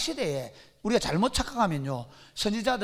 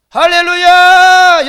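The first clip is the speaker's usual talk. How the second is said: drawn-out, much higher, much louder hallelujah shouted slowly; false prophet's hallelujah; 8 semitones higher, 19 dB louder, much slower than usual. Acted. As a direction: whip the crowd up with a booming slow hallelujah. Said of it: "선지자가 딱 성전했습니다".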